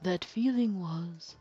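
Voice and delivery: soft, slow, smug villain voice; calm sinister villain. Acted. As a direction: purr the confession like a cold killer. Villain relishes the murder.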